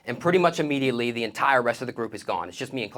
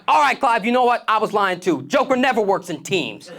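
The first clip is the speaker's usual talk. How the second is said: annoyed; 10 semitones higher, 6 dB louder than usual. Retold or imitated. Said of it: "I'm pissed at this point".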